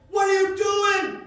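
loud, slow call out a car window. Retold or imitated. Driver calls out to a woman walking in traffic, loud and slow. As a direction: shout the question at a stranger in the road.

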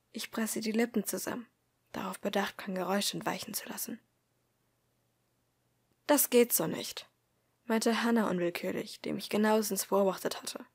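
measured first-person audiobook narration; story narration. A narrator's reading. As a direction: read the story aloud, calmly paced. Reads story aloud.

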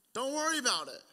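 high-pitched mock yell; imitating dad calling out. Dad calling off son's kite chase, high-pitched call. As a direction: call it out high, as if across a beach. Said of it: "and he goes".

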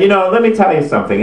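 playing a host getting worked up; mock intense. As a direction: butt in with exaggerated seriousness. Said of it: "he's getting intense".

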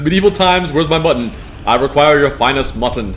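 loud, grand British medieval demand; posh British accent. Pretend. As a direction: boom it out like a British lord at a feast. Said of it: "I dig the Brit accent".

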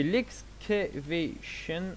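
slow, halting English "excavation" in a French accent; attempted English accent. Real, not acted. Viewers hear a command name in botched English, French-accented. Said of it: "Désolé pour mon, euh, accent".

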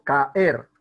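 caer split loudly as ca-er; separated vowels. Shown as a demonstration. Teacher giving an example of hiatus, ca-er split. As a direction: break caer between a and e. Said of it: "Son dos vocales abiertas diferentes".

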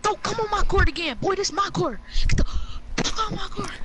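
high, hammed-up trash talk; mock taunting. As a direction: taunt them like a playground bully. Taunting a teammate on the court.

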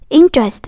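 "Interest" with a loud, stretched IN; stress on first syllable. Shown as a demonstration. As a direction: hit the IN of "Interest", then drop. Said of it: "âm một nó nằm ở đó".

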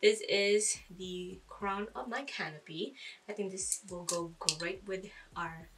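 slightly breathless talk; out of breath. Real, not acted. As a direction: speak a little winded. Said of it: "Sorry, I'm a little out of breath".

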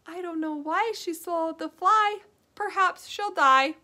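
put-on rhythmic sing-song reading for small children; children's rhyme voice; nursery rhyme reading. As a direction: lilt the rhyme like a story time teacher. Sings nursery rhyme to kids.

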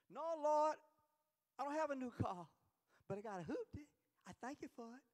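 high, loud opening that eases down; mock thankful prayer. Preacher voicing a believer thanking the Lord, loud playful prayer. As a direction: call out to the Lord, then settle.

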